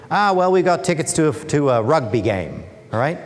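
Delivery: an excited Aussie bloke in a bad Australian accent. Worker boasts of rugby tickets, eager bad Australian accent. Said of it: "I'll try my really bad Australian accent here".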